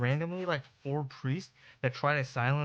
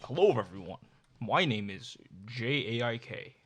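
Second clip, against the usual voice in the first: clickbait video narrator. Pretend. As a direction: greet the viewers like a channel host. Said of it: "should I put on my YouTuber voice for this?".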